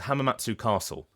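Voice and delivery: Hamamatsu Castle with "tsoo" fully sounded; full final oo. Shown as a demonstration. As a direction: keep the oo before "Castle" in "Hamamatsu Castle". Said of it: "you have people pronouncing it".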